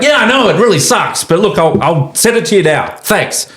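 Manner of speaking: high, bright client voice saying yes; placated client. Retold or imitated. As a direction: voice the calmed-down client cheerfully. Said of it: "he's like".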